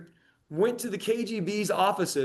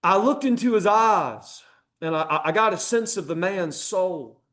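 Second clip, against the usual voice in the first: put-on slight southern accent. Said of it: "so I'm gonna use a slight southern accent".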